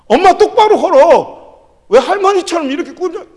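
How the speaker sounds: high, loud scolding of mum; angry shouting. Retold or imitated. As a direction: yell it in exasperation, re-enacting the outburst. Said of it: "그냥 엄마한테 막 화내".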